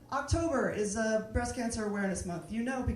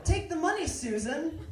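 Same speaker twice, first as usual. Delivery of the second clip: laughing plea; 5 semitones higher than usual. Retold or imitated. Repeated punchline to Susan.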